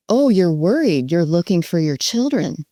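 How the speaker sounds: lightly voiced empathy, not mocking; matching worry. Shown as a demonstration. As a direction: echo their worry with gentle, understated concern. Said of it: "I say it with that kind of a voice".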